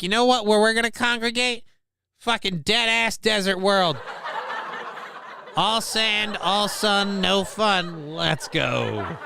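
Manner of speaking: quick, high, laughing mock of the Force deciding; mock Force talking. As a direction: play the Force as a giddy tour planner. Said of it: "it's like".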